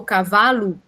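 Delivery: "cavalo" with the last vowel said as U; final U sound. Shown as a demonstration. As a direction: say "cavalo" ending clearly in "lu". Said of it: "ó aí o último som". ("cavalo" com o som final de U)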